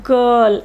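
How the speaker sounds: put-on "girl" with a long central vowel, R softened; R barely pronounced. Shown as a demonstration. Teacher modelling British English for learners, "girl" with unclear R. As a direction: say "girl" British-style, hardly sounding the R. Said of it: "it will be pronounced like".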